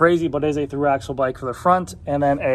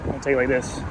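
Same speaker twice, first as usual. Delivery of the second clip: talking into wind on a bike; riding outdoors in wind; wind noise. Real, not acted. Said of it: "Sorry for the wind noise".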